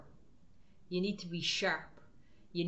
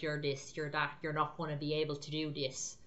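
lightly voiced devil, lower and a bit softer; taunting devil; 4 semitones lower, 4 dB quieter than usual. Devil whispering doubts to the believer, lower and taunting. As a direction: sneer like a devil putting you down. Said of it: "devil's like".

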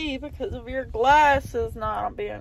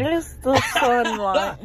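laughing; slower than usual. Real, not acted. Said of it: "laugh heard on line".

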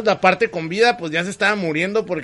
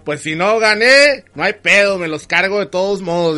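spiteful villain; 3 dB louder than usual. Retold or imitated. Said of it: "dice el Samas".

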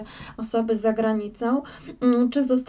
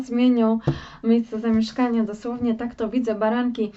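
ordinary talk

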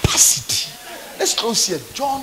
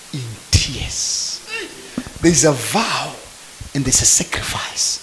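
hushed; 6 semitones lower, slower than usual. Acted. Sermon, hushed point.

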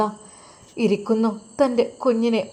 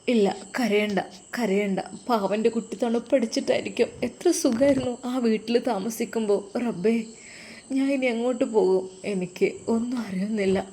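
soothing mother. Acted. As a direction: gently hush the crying child. Mother soothing crying baby.

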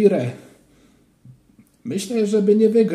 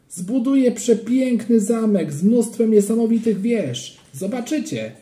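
put-on higher, proud little-boy voice; boastful child; 8 semitones higher, 3 dB louder than usual. A narrator's reading. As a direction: brag about it like a kid. Child boasting about his castle. (chłopięcy, chełpliwy głos)

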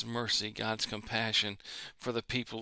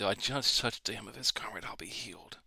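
whisper. Retold or imitated. Woman's hopeful words in story.

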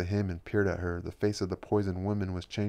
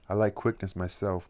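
excited; 4 dB louder than usual. Acted. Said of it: "Margarita said excitedly".

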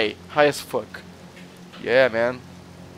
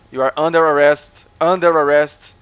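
louder, firm arrest call; roleplay cop arresting a suspect, loud; mock arrest; 7 dB louder than usual. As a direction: announce the arrest like a hammy cop.

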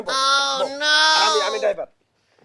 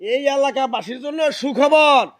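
through a megaphone. Shown as a demonstration. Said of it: "তোমারে কবার কইছি যে".

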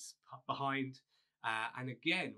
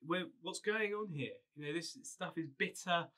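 higher whiny complaint, lightly voiced; grumbling Israelites; 5 semitones higher than usual. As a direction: moan at Moses like a put-out crowd. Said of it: "they grumble at him again".

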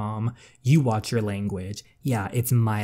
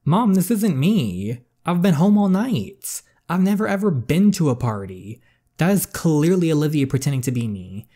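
desperate pleading; 6 semitones higher, 5 dB louder than usual. Acted. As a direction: cry out your innocence to an unbelieving mother. Daughter pleading, falsely accused.

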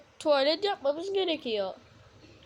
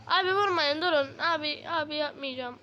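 whiny pleading; 3 semitones higher than usual. Real, not acted. Begging attackers to stop.

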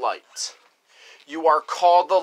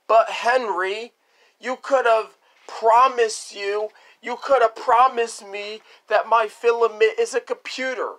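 put-on pleading kid; 4 semitones higher than usual.

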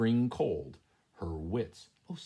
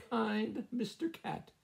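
slow trill; 14 semitones higher, slower than usual. Acted. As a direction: draw it out, sugary and slow. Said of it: "trilled Missus Chicken".

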